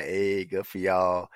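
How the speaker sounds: low, slow, underwhelmed "good for you"; lukewarm, drawn-out cheer; indifferent congratulations. Acted. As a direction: congratulate them without caring. Voicing indifferent response to Denver win.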